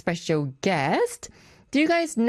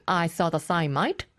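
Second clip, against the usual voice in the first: Samantha; 3 semitones lower than usual. Retold or imitated. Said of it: "to repeat what Samantha said".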